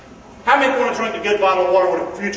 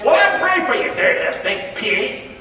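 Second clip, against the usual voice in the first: mock pious parent. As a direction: play a nagging mom, half-joking. Parent voiced in sermon.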